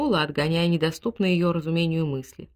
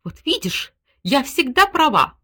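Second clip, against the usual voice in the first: high, loud triumphant cry; triumphant exclamation; 7 semitones higher, 6 dB louder, slower than usual. A narrator's reading. Wife gloats to husband over the old coin, loud triumph. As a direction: gloat with delight. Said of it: "воскликнула Степанида Ивановна".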